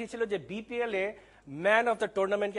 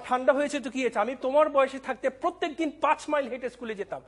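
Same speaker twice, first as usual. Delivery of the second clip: higher-pitched mock parental lecture; elder's scolding; 4 semitones higher than usual. Father answering daughter about the cold, mock scolding. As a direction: imitate an elder's stock telling-off, lightly indignant. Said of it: "এটা কিন্তু আমার মনে হয় সব মুরব্বিরই এটা বকা".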